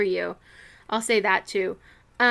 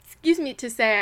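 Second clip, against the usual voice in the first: talking through hiccups; 2 semitones higher than usual. Real, not acted. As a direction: hiccup mid-sentence. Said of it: "I do now have the hiccups".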